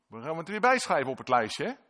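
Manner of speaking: high, loud taunting tut-tut; mocking accuser. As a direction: sneer it like the tempter keeping score. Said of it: "de boze met de gedachte".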